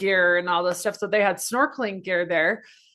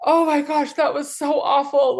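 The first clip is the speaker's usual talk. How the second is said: exclaiming in disgust; 7 semitones higher, 4 dB louder than usual. Retold or imitated. Surfacing after swallowing salt water.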